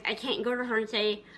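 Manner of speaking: ordinary talk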